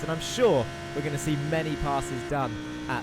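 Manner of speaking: brisk, lively onboard lap commentary; live play-by-play. Real, not acted. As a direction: talk viewers briskly round the circuit.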